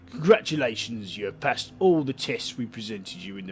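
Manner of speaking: reading a letter in a lightly put-on Cockney accent; a hint of a Cockney voice. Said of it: "Terrible Cockney, uh, accent as always".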